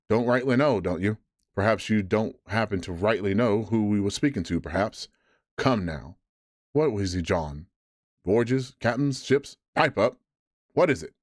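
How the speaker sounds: mock his answer and bully him; mocking scold. Silver berates Morgan.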